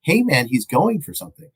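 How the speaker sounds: high-pitched mock yell, no real volume; half-hearted retold screaming. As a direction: imitate a screamer without shouting. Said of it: "the woman's just screaming".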